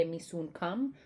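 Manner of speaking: lightly voiced Jamaican phrase; Jamaican patois. Shown as a demonstration. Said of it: "a lot of Jamaicans".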